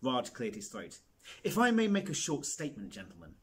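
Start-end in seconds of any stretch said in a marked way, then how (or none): 1.4-3.4 grand announcement. Acted. Raj addresses the press.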